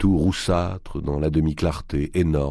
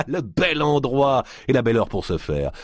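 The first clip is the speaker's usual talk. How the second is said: mocking giant voice; 8 semitones higher than usual.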